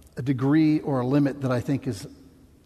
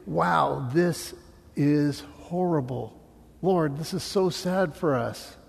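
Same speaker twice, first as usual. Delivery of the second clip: mild lament; slower than usual. Retold or imitated. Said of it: "where we can say".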